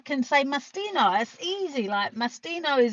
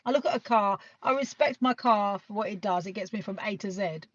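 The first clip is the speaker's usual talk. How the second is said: ordinary delivery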